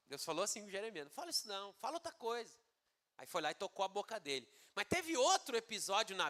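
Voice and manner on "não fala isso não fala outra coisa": soft, patient little reproof; merciful gentle correction. Acted. God speaking to Jeremias, merciful gentle correction. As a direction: steer him gently with a lowered voice. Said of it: "Deus foi ainda assim misericordioso".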